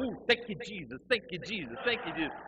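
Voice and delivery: high-pitched mock rapture; fervent worshipper. Guy in front praising amid the tongues, in high fervour.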